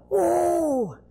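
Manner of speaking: long held whoop, falling off; acted-out drawn whoop; hollered whoa. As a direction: imitate a holler across water. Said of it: "Hollering out across that water".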